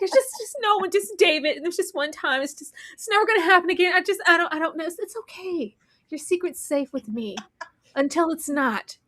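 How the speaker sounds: high, eager mock-sympathy; thrilled confidante. Eleanor promising to keep the secret while gloating, high and eager. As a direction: play it concerned while gloating underneath. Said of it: "She was excited".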